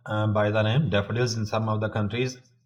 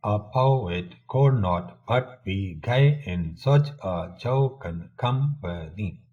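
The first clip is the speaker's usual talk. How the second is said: lilting measured recital, lower and gentler, falling cadences; poem recitation; 3 semitones lower, slower than usual. Shown as a demonstration. Reciting the Daffodils poem once more, in a low, gentle rhythm.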